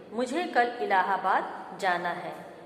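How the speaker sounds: मुझे given gently first; corrected sentence. Shown as a demonstration. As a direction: open with a clear मुझे.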